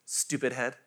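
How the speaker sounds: put-on toddler insult. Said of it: "her favorite thing to say".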